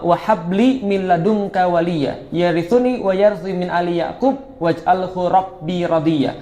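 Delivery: slow, measured Quranic recitation. Acted. Preacher reciting Maryam verses to the congregation, slow recitation. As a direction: recite the verses slowly and evenly.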